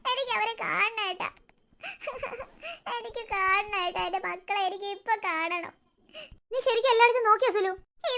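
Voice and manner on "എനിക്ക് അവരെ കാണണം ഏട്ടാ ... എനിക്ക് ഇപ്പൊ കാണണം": fading into quiet weeping; sobbing plea. Acted. Mother begging her husband to find the children, tearful and soft.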